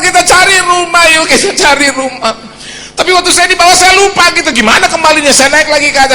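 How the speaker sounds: high, loud, driving sermon voice; loud impassioned preacher; full-force preaching. Acted. Preaching climax.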